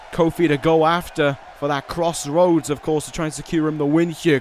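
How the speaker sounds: brisk ringside play-by-play; wrestling commentator. Acted. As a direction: call the match like TV commentary.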